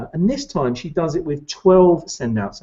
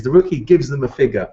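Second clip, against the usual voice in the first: ordinary talk, nothing marked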